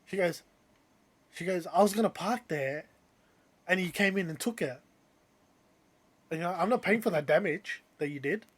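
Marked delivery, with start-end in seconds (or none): 1.7-8.4 mildly indignant driver, imitated; retold accusing. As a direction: argue your claim to the spot, pitch slightly raised. Retold parking argument, other driver accuses.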